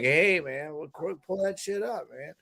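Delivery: low, croaky Rogan impression, trailing soft; laid-back podcast-host murmur; Joe Rogan voice. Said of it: "a croaky, low voice".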